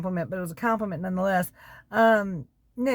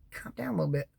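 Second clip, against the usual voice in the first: breathy whisper to a commenter; whispered aside; 6 dB quieter, faster than usual. Real, not acted. Whispering to Zach in the comments to calm down. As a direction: hush him gently, whispering.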